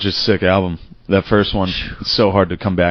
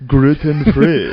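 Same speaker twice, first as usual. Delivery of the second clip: drawn-out, higher mock Asian accent; 5 semitones higher, 3 dB louder, much slower than usual. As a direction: mimic a bad prank-call Asian accent, slowly. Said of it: "that, that Asian voice".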